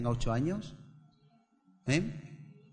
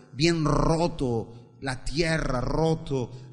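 fervent prayer. Acted. Pastor praying over the church before preaching, building fervor then a hushed amen. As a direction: pray aloud over the congregation, growing intense then hushed.

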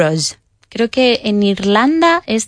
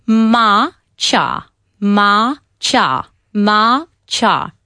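British accent; much slower than usual. Shown as a demonstration. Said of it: "si lo quieres decir muy británico".

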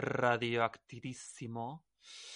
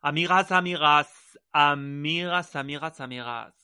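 excited greeting; 6 dB louder than usual. Real, not acted. Host greets listeners.

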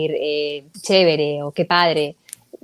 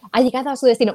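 GPS voice; 4 semitones higher, faster than usual. Retold or imitated. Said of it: "además de".

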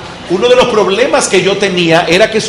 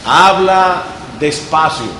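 slow, deliberate and calm; slow again; slower than usual. Shown as a demonstration. Teacher repeating the advice, slow steady delivery.

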